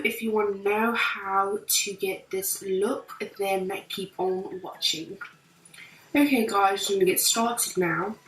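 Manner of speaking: put-on amateur British accent, chatty tutorial style; casual imitation British accent, trying your best. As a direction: attempt a British accent while hosting a makeup tutorial. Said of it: "doing the entire tutorial in a British accent".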